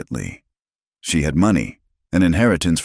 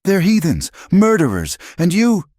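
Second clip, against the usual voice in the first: much higher, louder, climbing in outrage; voice rising high; 5 dB louder than usual. A narrator's reading. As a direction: spit the accusations, climbing higher. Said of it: "Adelaide's voice rose shrilly".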